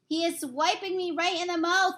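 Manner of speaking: high, angry yell; lightly voiced giant yelling. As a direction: yell in outrage. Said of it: "yelled the meat dripper".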